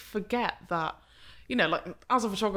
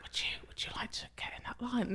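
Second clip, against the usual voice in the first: whispered, barely-there request; timid whisper; 4 semitones higher, 5 dB quieter, faster than usual. Retold or imitated. Nervous photographer whispering to wedding guests to line up. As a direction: ask so softly it's only breath. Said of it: "my little mouse voice".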